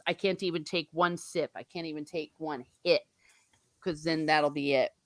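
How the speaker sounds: soft, low-key admission of temptation; wary Gandalf. Acted. Gandalf refusing temptation like a recovering addict, quietly wary. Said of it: "Gandalf knows".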